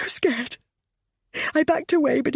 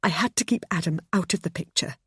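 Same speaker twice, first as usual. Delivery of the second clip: raised, distressed confession; crying out; 7 semitones higher than usual. Acted. Pammy confessing to James and narrator, distressed. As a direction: plead your case through tears. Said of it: "she cried".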